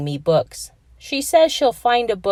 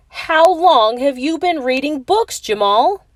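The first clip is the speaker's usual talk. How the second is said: shocked question; 8 semitones higher, 5 dB louder than usual. Acted. Narrator shocked by Jamal reading.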